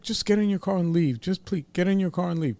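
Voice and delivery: pleading to be left alone, lightly whimpered; high-pitched retold whimper; mock whimpering. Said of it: "not begging, but, like, whimpering".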